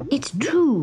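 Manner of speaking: kitten voice. A narrator's reading. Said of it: "said Gobelino".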